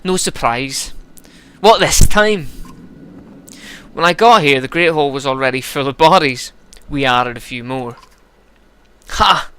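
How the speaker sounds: lightly voiced big Varl, gruff and weary; gruff Varl Hakon. Varl tax collector complaining to the scribe, gruff.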